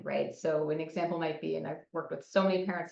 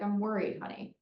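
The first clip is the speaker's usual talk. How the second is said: loving concern; 3 semitones higher than usual. Acted. Parent not guilt-tripping the kid, loving concern. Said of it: "try to have a loving tone".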